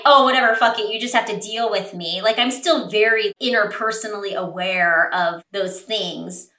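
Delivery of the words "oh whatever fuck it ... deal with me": dismissive, don't care. Retold or imitated. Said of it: "be like".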